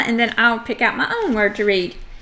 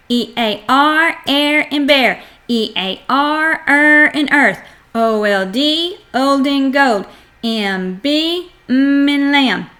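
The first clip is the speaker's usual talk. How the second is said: rhythmic, evenly paced chart drill; phonics chart recitation. Shown as a demonstration. Teacher drilling a child on the blend chart, rhythmic recitation. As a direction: recite letters, sound and key word in a steady beat.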